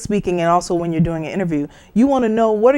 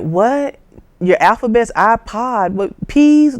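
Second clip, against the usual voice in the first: confused, higher questions; baffled teen; 4 semitones higher than usual. Retold or imitated. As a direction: play a puzzled teenager. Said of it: "they're like".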